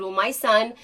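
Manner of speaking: a mother's soft appeal to the gate agent; softly pleading. Retold or imitated. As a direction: ask nicely, keeping the voice down. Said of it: "I said".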